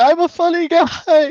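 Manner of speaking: very slow, high, drawn-out maniac scream. Describing a psychopath hurdling over a table: screaming in character.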